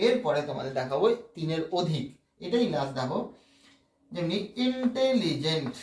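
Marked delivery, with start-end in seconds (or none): 4.7-5.7 ইন্টেলিজেন্ট slowly, syllable by syllable; slow syllable breakdown. Shown as a demonstration. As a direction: stretch out each beat of ইন্টেলিজেন্ট. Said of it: "আস্তে আস্তে উচ্চারণ করে". (ইন্টেলিজেন্ট ধীরে ধীরে ভেঙে)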